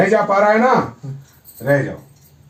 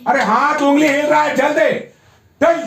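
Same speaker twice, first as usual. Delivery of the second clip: urging on; 4 semitones higher than usual. Real, not acted. Therapist urges arm movement.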